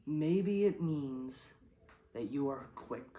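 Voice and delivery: poetry reading. Shown as a demonstration. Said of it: "that's why I'm making it rhyme".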